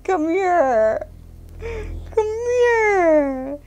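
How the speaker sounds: high sweet call to the dog; coaxing coo. Real, not acted. Owner coaxing the dog to come, high coo. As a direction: coax him over gently.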